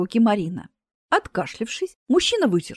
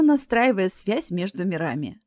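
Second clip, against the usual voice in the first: ordinary delivery, nothing marked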